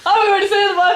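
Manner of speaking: lightly put-on character voice; a hint of a playful fantasy-hero impression; Thorin voice. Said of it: "It sounds like your Thorin voice".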